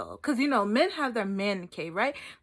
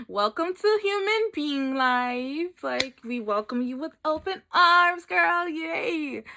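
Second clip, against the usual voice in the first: drawn-out, loud ceremonial welcome; mock welcome; 5 semitones higher, 5 dB louder, slower than usual. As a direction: greet them with hammed-up celebration. Friend mockingly welcomes her to emotions.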